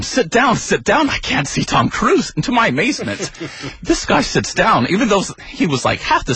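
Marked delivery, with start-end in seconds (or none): 0.0-2.3 imitated yell. Date orders big man to sit, mock yelling. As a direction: scold in a high, put-on yell. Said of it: "Jake yells at him".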